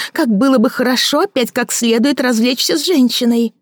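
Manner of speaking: a bitter woman mocking her lover; Victoria mocking. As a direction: sneer at his fancy words. Victoria accusing.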